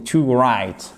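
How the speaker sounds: "to write" with no W sound; silent W. Shown as a demonstration. Teacher showing the silent letter, write without W. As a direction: start write straight on the R. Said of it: "vous ne prononcez pas le W".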